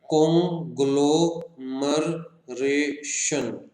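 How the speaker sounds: कॉन्ग्लोमरेशन very slowly as कॉन, ग्लो, मर, रे, शन; five-syllable split. Shown as a demonstration. Teacher counting five sounds, कॉन्ग्लोमरेशन in separate slow beats. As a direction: pause after each syllable of कॉन्ग्लोमरेशन. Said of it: "अलग अलग sound आ रही है".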